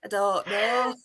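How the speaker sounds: put-on blocked-nose Leicester accent; nasal attempt at a Leicester accent; imitated Leicester accent. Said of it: "block my nose".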